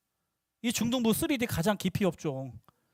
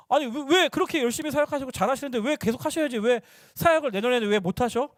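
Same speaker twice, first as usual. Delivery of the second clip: higher-pitched aggrieved questioning; mock protest, feeling let down; hurt complaint; 4 semitones higher than usual. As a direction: retell it as a wounded grumble. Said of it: "하면서 막, 막 서운한 거예요".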